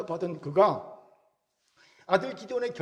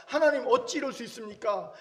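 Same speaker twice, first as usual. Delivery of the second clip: mock protest; 4 semitones higher than usual. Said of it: "기드온이 항의할 수 있었을 겁니다".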